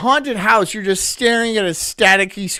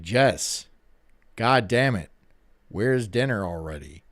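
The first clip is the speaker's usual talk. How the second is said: low pretend man-of-the-house voice; fake deep home voice; 7 semitones lower than usual. Streamer playing himself calling Jess for dinner, fake deep voice. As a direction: demand it in a put-on deep voice. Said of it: "the voice I do around the house".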